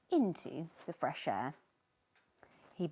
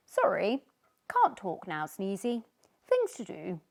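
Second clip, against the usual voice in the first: lightly voiced busy fish, louder; brushing-off fish; 6 dB louder than usual. A fish hurrying past Sneezy, dismissive. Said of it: "said one fish".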